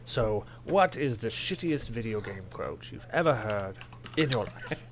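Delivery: slow, put-on English accent; pompous British accent. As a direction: repeat the question as a pompous Brit. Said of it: "I'll do the pompous".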